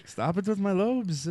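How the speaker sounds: wobbly mock-Pope accent, drawn out; unsure Pope accent. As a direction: play the Pope in a muddled foreign accent. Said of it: "what kind of accent to give him".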